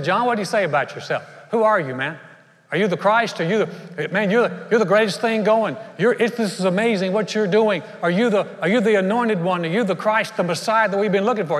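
pressing him like an awestruck crowd; eager crowd questioning. Acted. Crowd pressing John about who he is, eager and fast.

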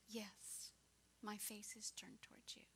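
put-on whispered reassurance to a sleepy child; father whispering to his daughter in the dark; soothing whisper. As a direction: hush it so she can sleep.

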